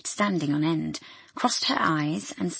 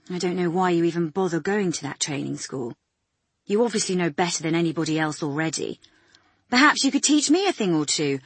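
sarcastic; 3 dB louder than usual. Acted. Doctor mocks nurse.

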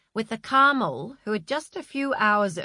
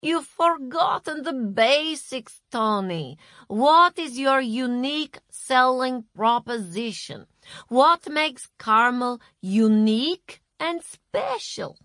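brisk boss voice; 6 semitones higher, 5 dB louder than usual. A narrator's reading. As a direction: talk down like a boss. Masha lecturing.

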